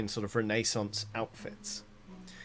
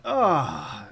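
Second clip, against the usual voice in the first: sigh of relief; 4 semitones higher, 8 dB louder than usual. Acted. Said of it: "you hear them go like".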